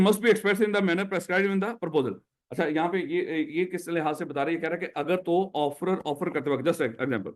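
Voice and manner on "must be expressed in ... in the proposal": very slow, word by word, like dictating; slow teacher's dictation of a legal rule. Shown as a demonstration. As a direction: read the rule slowly so students can write it. Teacher dictating the statute to students.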